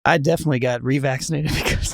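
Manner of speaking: deadpan line breaking into a laugh; failed straight face, real laugh escaping; trying not to laugh. Real, not acted. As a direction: try to say it straight, then crack up. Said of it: "couldn't even say that without laughing".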